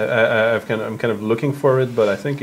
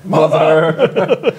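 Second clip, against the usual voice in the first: man down shout; 4 semitones higher, 7 dB louder than usual. Pretend. Echoes the joke cry.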